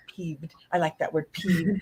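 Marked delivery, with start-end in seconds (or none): 0.1-0.6 quoting Michael. Retold or imitated. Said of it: "he's like".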